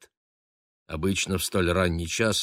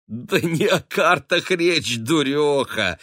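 fond chuckle; 8 semitones higher, 5 dB louder, slower than usual. A narrator's reading. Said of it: "ласково усмехнулась".

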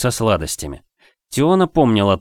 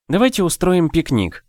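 eager, higher-pitched suggestion; lighting up; 9 semitones higher than usual. A narrator's reading. Daniela eagerly proposes a lakeside picnic to friends, excited. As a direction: jump at the idea with delight. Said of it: "загорелась Даниэла".

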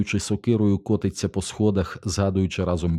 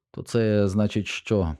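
confused; 3 semitones higher, slower than usual. Acted. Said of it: "розгублено сказав перший штурмовик".

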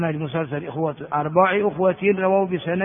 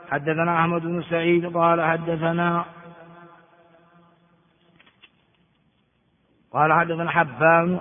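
measured, level-pitched reading aloud; formal text recitation. Acted. Teacher reads the hadith text to students, formal recitation. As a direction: read out the chain of narrators formally.

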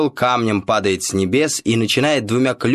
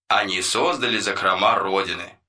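voiceover narrator; 4 dB quieter than usual. Retold or imitated. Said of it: "закадровый голос так и сказанул".

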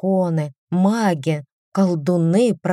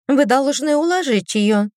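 prim governess; 6 semitones higher than usual. Acted. Governess instructs.

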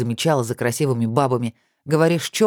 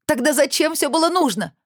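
a sudden high cry; shrill outburst at him; 14 semitones higher than usual. A narrator's reading. Olya cries out at Kirill on the rink, high pitched. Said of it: "вскрикнула она".

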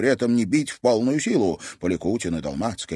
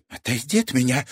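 angry; 4 semitones higher than usual. A narrator's reading. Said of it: "гневно зыркнул на него Милана".

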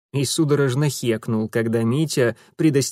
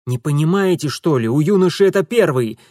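irritated scolding; 3 semitones higher, 5 dB louder than usual. Acted. Urusov scolds.

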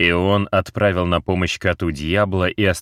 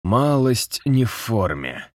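battered man voice; 6 semitones higher, slower than usual. A narrator's reading. Beaten man, battered lips.

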